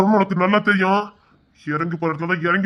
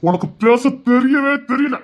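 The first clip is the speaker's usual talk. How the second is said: slow mocking scorn; 4 semitones higher, slower than usual. Husband mocking her speech.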